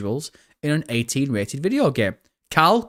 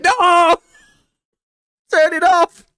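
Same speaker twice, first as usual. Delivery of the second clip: high, loud mock scream; imitated screaming at telly; 7 dB louder, slower than usual. Streamer imitating viewer yelling at the telly, mock scream. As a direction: holler in mock horror at the screen. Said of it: "screaming at the telly".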